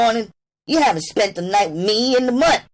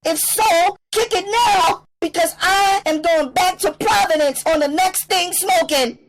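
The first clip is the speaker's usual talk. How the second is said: much higher, loud defiant outburst; spat out; 6 dB louder than usual. A narrator's reading. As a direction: dare the pimp to hit her. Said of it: "Then she went on".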